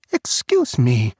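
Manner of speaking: sharp offended snap, slow; snapped. Acted. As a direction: bite off the words indignantly. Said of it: "she snapped".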